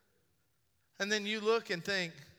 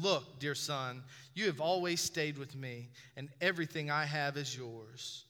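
1 gentle father; 4 semitones lower, 3 dB quieter than usual. Acted. Father's gentle reply, softer lower.

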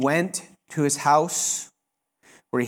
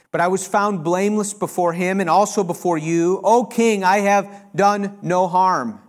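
triumphant Daniel; 3 semitones higher, 3 dB louder than usual. Acted. Daniel answers the king from the den, triumphant declaration. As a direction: proclaim your innocence up to the king.

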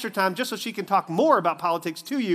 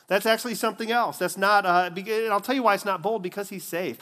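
usual speaking voice

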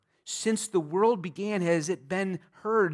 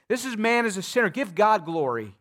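higher, fast, pushy demand; Pharisees insisting; 4 semitones higher, 4 dB louder than usual. Acted. Pharisees pressing the healed man, fast and insistent. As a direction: press the point hard and quick.

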